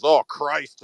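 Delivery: put-on lightly done Boston accent, weary; a touch of a Boston accent, exasperated. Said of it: "in the Artie Boston accent".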